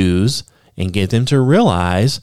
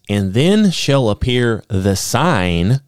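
slow reading that leans on "sign" at the end; stress on sign; slower than usual. Shown as a demonstration. Preacher reading scripture to his listeners, stressing "sign". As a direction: land hard on "sign", the key word. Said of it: "I put a little extra emphasis on the word sign".

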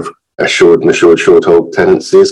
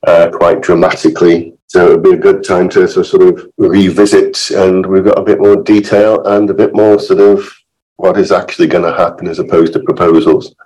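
hoarse, croaky from illness; rough, croaky voice getting over illness. Real, not acted. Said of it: "apologise for my, my croaky voice".

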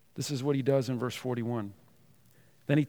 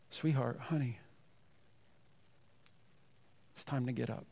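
tender wake-up call; 4 dB quieter than usual. Retold or imitated. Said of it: "He whispers, saying".

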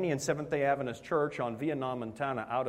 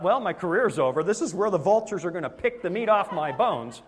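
mock doom; 4 semitones higher, 5 dB louder than usual. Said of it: "I thought".

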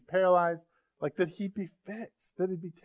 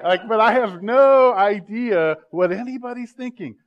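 much louder, higher and slow; loud exclamation; 7 semitones higher, 10 dB louder than usual. Real, not acted. Preacher admitting to congregation he can't read minds, loud exclamation. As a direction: belt it out, stretching the words. Joking with congregation about mind reading.

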